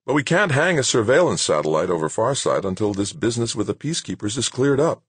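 easygoing but firm director; good-natured. A narrator's reading. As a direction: refuse him in a friendly way. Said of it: "Anson said good-naturedly".

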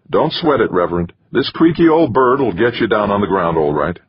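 jaunty pilot reassuring; breezy pilot. Acted.

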